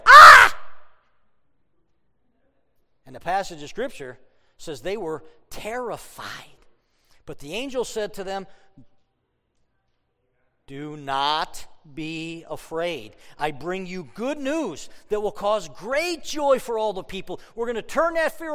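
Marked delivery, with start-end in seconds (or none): 0.0-0.5 a sudden high, loud scream of fright; terrified shout. Acted. Shepherds seeing the angel's glory, screaming in fright. 10.7-17.4 slow, soothing reassurance; slow it right down and calm them. Acted. Angel calming the frightened shepherds, slow and soothing.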